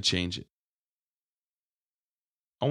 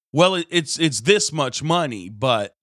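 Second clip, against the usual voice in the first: imitating the friend; 5 semitones higher, 6 dB louder than usual. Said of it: "I was like".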